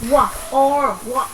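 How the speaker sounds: slow "walk" with no l sound, only w, o, k; silent L. Shown as a demonstration. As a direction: say "walk" slowly, leaving out the L. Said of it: "Từ này không có âm L".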